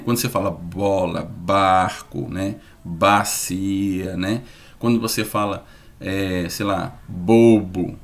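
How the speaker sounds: low bola, barco, bobo with buzzing b; voiced b demo. Shown as a demonstration. Teacher gives voiced words to practise. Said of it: "pra você treinar".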